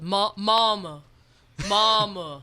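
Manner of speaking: a touch of a slow Southern drawl on mama; lightly drawled Southern mama; mock country singer drawl. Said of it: "You have to talk like this".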